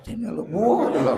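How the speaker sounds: high, rude call to come over; a teacher acting out the wrong way to call someone; rude beckoning call. Shown as a demonstration. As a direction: bark it like summoning a servant. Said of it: "Jangan tuh manggil orang begitu".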